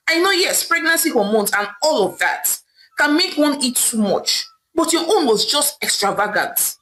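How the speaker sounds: dismissive husband, understated irritation; mildly angry. Acted. Husband brushing off his wife's tears, mildly angry. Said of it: "Okeke replied angrily".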